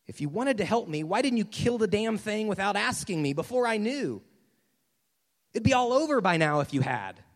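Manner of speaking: loud, acted exasperation; aggrieved, frustrated outburst; exasperated ghost. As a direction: lash out with blame, building in volume. Acted ghost blames the angel.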